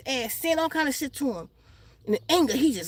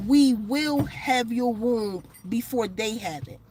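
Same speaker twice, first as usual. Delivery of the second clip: horrible demon voice; 4 semitones lower, slower than usual. Retold or imitated. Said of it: "spoke in a really horrible voice".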